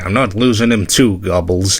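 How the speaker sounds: normal talking voice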